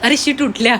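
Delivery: startled loud oh no; surprised. Real, not acted. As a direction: caught off guard. Sleepers suddenly wake.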